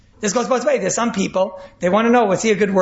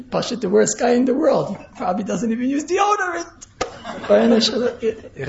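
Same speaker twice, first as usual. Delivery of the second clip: mock disgust; 3 semitones higher than usual. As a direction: ham up the listener's disgust. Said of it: "what the other guy just heard is".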